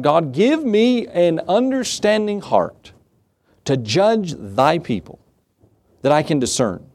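slow, high, earnest plea to God; a young king slowly begging God for wisdom; pleading prayer. Retold or imitated. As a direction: pray it slowly, pleading upward. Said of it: "He was pleading and praying".

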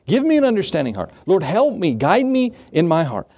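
put-on a young king urgently pressing his plea to God; urgent pleading prayer. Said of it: "He was pleading and praying".

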